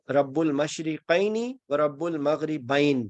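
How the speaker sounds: slow, measured Quranic recitation; unhurried Quranic verse reading. Shown as a demonstration. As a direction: recite it slowly, sounding out the dual ending ain. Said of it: "آنی کی جو sound ہوتی ہے".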